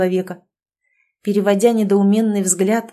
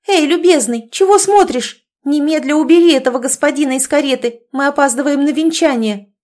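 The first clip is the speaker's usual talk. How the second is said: higher and louder, calling out sharply; shouting to coachman; 6 semitones higher, 5 dB louder than usual. Acted. Sister shouts at the idle coachman through the door, loud. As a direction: yell through the carriage door. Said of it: "закричала в открытую дверцу кареты кучеру".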